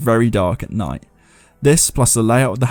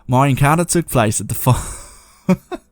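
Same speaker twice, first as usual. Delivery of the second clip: starting the story read slowly in a put-on Australian accent; slow Aussie storyteller voice; 4 semitones higher, slower than usual. Shown as a demonstration. Reading out a listener's ghost story in a slow put-on Australian accent. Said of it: "I'm not gonna do an accent".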